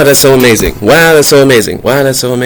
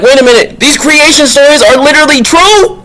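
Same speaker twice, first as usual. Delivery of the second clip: very high-pitched incredulous question; acted astonishment; 13 semitones higher than usual. Vlogger realizing creation stories may be true, astonished. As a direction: climb high in mock disbelief.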